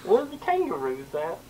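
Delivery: mock Australian accent. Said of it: "Let's hear your Australian accent".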